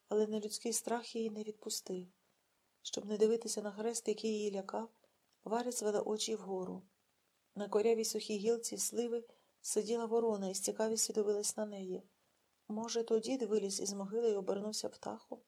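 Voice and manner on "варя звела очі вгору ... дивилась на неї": usual speaking voice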